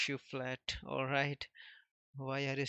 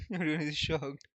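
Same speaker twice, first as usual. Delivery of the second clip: loud shocked outburst; shocked cry; 3 semitones higher, 7 dB louder than usual. Acted. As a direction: blurt it out in shock. Giant reacts in shock.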